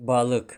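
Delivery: балык said slowly with each sound clear; Turkish word балык. Shown as a demonstration. Teacher demonstrating балык to the class. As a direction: model балык for the students. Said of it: "дар калимаи".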